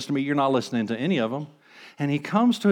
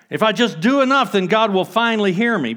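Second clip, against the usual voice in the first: mock striving; 6 semitones higher, 5 dB louder than usual. Voicing striving worshipper.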